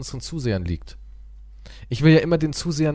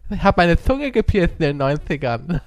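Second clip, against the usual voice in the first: lightly voiced lisping woman; slushy lisp; 3 semitones higher than usual. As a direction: lisp through a pierced tongue. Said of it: "die lispelt halt so ein bisschen". (lispelnd mit gepiercter Zunge)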